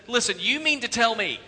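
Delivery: mild retold exasperation; a touch of fed-up impatience; exasperated. Jobs fed up with Sculley, mildly exasperated. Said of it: "he's totally exasperated".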